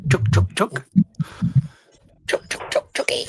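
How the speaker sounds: sing-song chook chook call; calling chickens. Pretend. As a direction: coax the chicken home. Calling the lost toy chicken.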